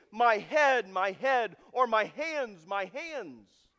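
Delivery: loud, drawn-out cry of pain; mock wail. Preacher acting out what Jesus did not wail, loud cries.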